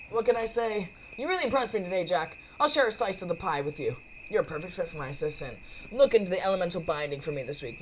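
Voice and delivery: lightly acted confident mentor; lightly voiced Frankie, approving. Frankie takes Jack on as assistant, approving. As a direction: play a casual boss taking on an assistant.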